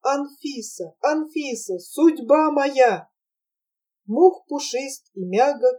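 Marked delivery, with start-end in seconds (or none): 0.0-3.1 rapturous cry. Acted. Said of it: "сладостным криком".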